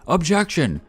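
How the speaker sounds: high-pitched acted courtroom cry; mock shout, pitch jumping up. A narrator's reading. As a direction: call out like a protesting lawyer. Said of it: "and him shouting".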